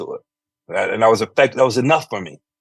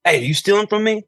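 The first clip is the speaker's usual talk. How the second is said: high, accusing store clerk; suspicious store clerk; 10 semitones higher than usual. Retold or imitated. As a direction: catch the kid red-handed, pitched way up. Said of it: "the guy comes around and goes".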